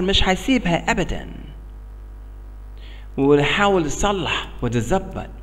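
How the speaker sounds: American-accented broken Arabic; learner's Arabic with an American accent. Real, not acted. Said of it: "عربي مكسر".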